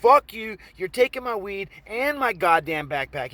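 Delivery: indignant retort, punched opening; acted heated refusal. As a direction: stand up to the mugger. Arguing with robber, acted.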